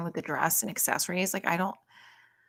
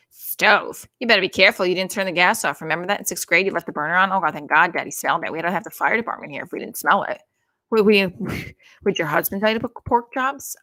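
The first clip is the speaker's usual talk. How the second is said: nagging mother; 7 dB louder than usual. Retold or imitated. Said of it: "she'd do it".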